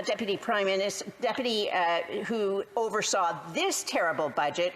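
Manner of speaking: normal talking voice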